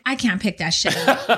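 laughing through the words. Retold or imitated. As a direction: chuckle it out. Retold reaction, laughing.

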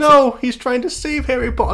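high-pitched, insistent defence; a fan leaping to defend his favourite; high protest. Real, not acted. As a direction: push back hard, pitch up. Defending Dobby against co-host.

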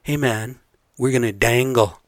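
gangster movie line. Retold or imitated. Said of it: "Well, they would say".

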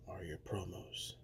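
sneering whisper. Acted. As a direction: finish the jab under your breath. Menacing promo, hushed aside.

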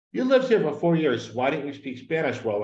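quoted complaint, pushed up then settling; imitated criticism. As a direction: start high and loud, imitate an accusing critic. Quotes people criticizing his Spanish.

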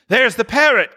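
high, loud cry of recognition; thrilled exclamation, pitch shooting up; excited cry. A narrator's reading. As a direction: call it out in delighted surprise. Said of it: "cried Scrooge".

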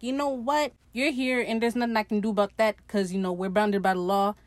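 mildly exasperated retelling; fed up. Retold or imitated. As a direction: act out someone who has had enough, lightly. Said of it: "she's had it up to here".

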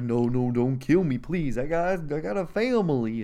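half-hearted begging, rising in pitch; mild mock pleading. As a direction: plead lightly, as if imitating a scared man. Intruder pleads for his life.

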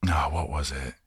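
"oh, what was it" whispered to himself. Real, not acted. Trying to recall a film title, whispers to himself. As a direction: breathe it while searching memory. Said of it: "whispering while trying to remember".

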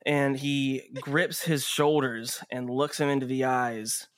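measured scene setting with dramatic pauses; game master narration. Acted. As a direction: narrate the action steadily, leaving space between beats.

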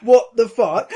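laughing in disbelief. Retold or imitated. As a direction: laugh out the question.

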